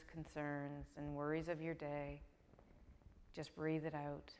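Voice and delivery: calm, unhurried meditation guidance with long pauses; guided meditation. Real, not acted. Yoga teacher settling students on the mat, calm guided meditation. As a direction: ease them into rest, leaving room to breathe.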